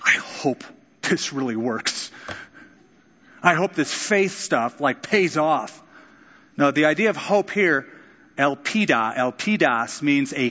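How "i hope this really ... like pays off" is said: slow, hesitant fingers-crossed hoping; unsure, doubtful. Pretend. Believer crossing his fingers about faith, unsure and slow. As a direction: doubt every word, half-hearted. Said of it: "crossing his fingers going".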